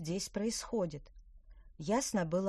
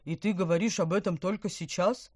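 reproachful gurgle; 6 dB louder than usual. Acted. Fish reproaches witch.

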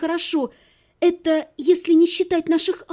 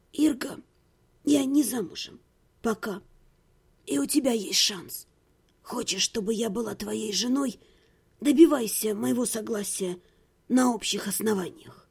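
softer, cool statement of terms; quiet terms; 4 semitones lower, 6 dB quieter than usual. Acted. Heroine setting terms to her ex, quiet and cool. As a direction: lay down conditions softly.

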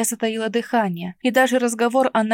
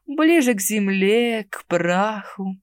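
predatory relish; slower than usual. Acted. The necromancer relishes living near graves, slowly. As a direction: let к праху sink, slow and falling. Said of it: "хищно улыбнулся некромаг".

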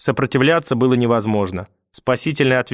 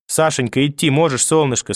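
tender grandmother; 3 semitones higher than usual. Acted. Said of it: "спросила бабушка".

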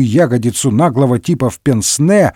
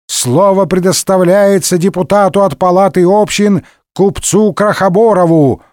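announcement; 5 semitones higher than usual. A narrator's reading. Speaker announces next orator.

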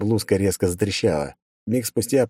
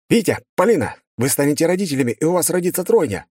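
high, loud proclamation; loud announcement; 9 semitones higher than usual. A narrator's reading. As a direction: blast the news at them. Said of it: "громко выкрикнул я".

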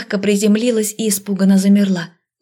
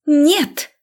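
defiant refusal; 7 semitones higher than usual. A narrator's reading. Witch refuses again.

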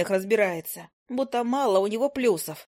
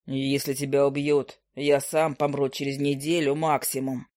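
low, slow, careless brush-off; carefree familiar; 6 semitones lower than usual. A narrator's reading. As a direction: wave her off lazily in a low voice. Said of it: "беспечно отмахнулся от меня фамильяр".

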